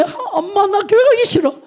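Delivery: put-on high whiny kid voice; whiny child. Pastor as a boy whining to his mother, high and whiny. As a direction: whine like a kid who won't go.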